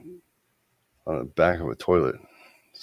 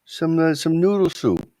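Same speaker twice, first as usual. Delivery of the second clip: put-on high, loud Jewish mother accent; New York Jewish accent; 11 semitones higher, 8 dB louder than usual. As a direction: fuss over him like a yenta. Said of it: "You sound like a Yenta".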